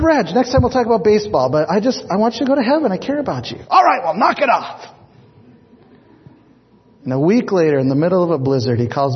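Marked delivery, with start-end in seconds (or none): 0.0-3.6 earnest plea. Retold or imitated. Pastor pleading with friend on phone. 3.7-4.8 grudging brush-off. Retold or imitated. Reg gruffly dismisses the pastor.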